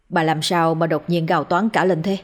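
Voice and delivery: a touch of worried urgency; anxious, eager asking. Acted. Husband repeats his question to his wife, mildly anxious. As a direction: press her gently but anxiously. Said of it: "bằng giọng sốt sắng".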